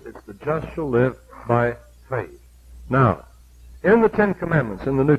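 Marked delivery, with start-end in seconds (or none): 0.2-2.4 slow and deliberate, landing on "faith"; "faith" set apart at the end, slowly; stress on FAITH. Shown as a demonstration. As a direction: space out the words up to a weighty "faith". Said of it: "but in Hebrews".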